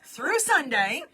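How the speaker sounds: lightly voiced auctioneer patter. Real, not acted. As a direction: sell it like a mild auctioneer. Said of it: "You sound like an auctioneer".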